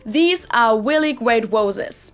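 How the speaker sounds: "really" as "weally", "roses" as "woses"; slow, W for R in "really great roses". Shown as a demonstration. Teacher mimicking Germans lacking English R, W in "roses". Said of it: "replace the R's with a W sound".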